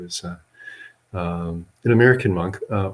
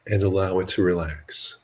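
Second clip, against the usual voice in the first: measured meditation guidance with long pauses between phrases; guided meditation. Real, not acted. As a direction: guide listeners gently into relaxing, leaving long silences.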